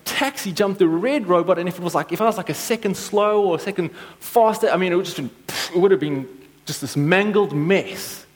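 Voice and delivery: breathless, fast retelling; retold excitement. Telling his wife about the near-miss, fast and excited. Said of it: "And I said".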